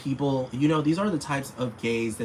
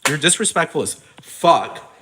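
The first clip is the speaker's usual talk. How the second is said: higher and louder, leaning on disrespectful; louder repeat; 4 semitones higher, 5 dB louder than usual. Real, not acted. Ranting at Simon Cowell, louder and angrier. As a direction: punch it harder the second time.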